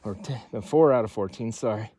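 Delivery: winded from the climb; breathing hard at altitude. Real, not acted. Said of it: "Low oxygen here".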